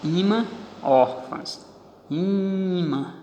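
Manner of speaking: teacher slowly marking stressed syllables; stress shown. Shown as a demonstration. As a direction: draw out Í-mã to show the stress. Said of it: "aqui a tonicidade".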